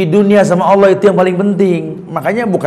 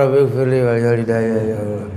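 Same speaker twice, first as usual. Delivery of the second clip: pleading prayer; 6 semitones lower, 6 dB quieter than usual. Shown as a demonstration. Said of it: "Sampai gelantungan di Ka'bah".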